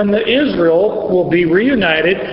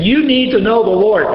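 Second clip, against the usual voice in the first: parent scolding; 4 semitones higher than usual. Retold or imitated. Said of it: "the parent saying".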